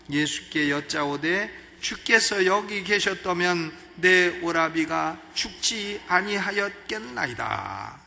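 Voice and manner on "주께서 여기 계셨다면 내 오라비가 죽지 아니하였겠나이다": slow, solemn reading of the verse; measured, formal Bible reading voice; scripture reading. Acted. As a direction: read Martha's words as holy text, slowly. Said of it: "이게 점잖게 조금 불평을 하는 거죠".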